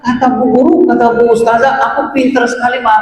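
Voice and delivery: put-on a child bursting to tell mum his news; excited stammering child.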